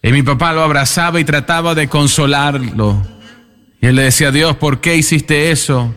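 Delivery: voz algo más alta, imitando un grito de dolor sin llanto real; lamento de padre en duelo. Retold or imitated. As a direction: reclama a Dios como el padre que perdió a su hijo, con dolor contenido. Padre en duelo grita a Dios. (el predicador imita a Jorge junto al ataúd, con dolor moderado)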